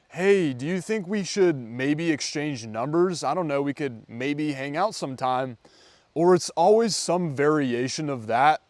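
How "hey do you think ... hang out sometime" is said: weak, apologetic ask. Shown as a demonstration. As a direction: ask as if you don't deserve her number. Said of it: "they'll ask it in a way that's really weak".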